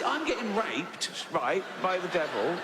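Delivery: a hint of a whiny victim, slow and laughing; lightly voiced sufferer, half laughing; mock complaining sufferer. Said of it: "he said".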